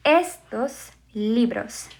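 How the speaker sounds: Estos libros said slowly and clearly; slow demo phrase. Shown as a demonstration. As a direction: model it slowly for students. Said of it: "I would say".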